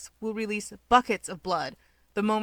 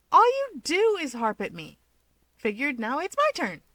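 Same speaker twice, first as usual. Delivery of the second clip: much higher and louder indignant retort; irritated retort; 7 semitones higher, 5 dB louder than usual. Acted. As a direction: fire it back, stung.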